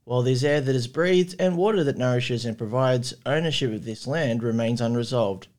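measured, formal acknowledgement of country in a steady reading voice. Acted. Host opening the podcast, reading a formal acknowledgement of country. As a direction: read it like an official opening statement.

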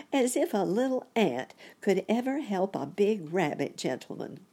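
put-on high, incredulous child-like voice; amused scoff. A narrator's reading. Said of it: "laughed Sammy Littletail".

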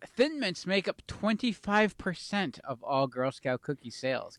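lightly pompous fact-reciting voice; a hint of a self-important announcer. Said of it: "you put your pompous voice on".

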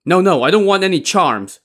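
high, loud, urgent refusal; panicked. A narrator's reading. Li Kui refuses Daizong's charms, in a panic. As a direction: refuse in a panic, pitch jumping up. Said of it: "said in a panic".

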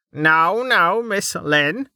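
slow, drawn-out soothing tone; patronizing. Acted. Dell soothes Lady Draves condescendingly, slow and patronizing. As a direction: talk down to her sweetly. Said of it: "Dell said in patronizing tone".

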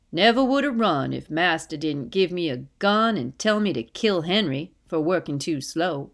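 understated character voice, firm telling; man telling his escape. Acted. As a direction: recount a lived story with some force.

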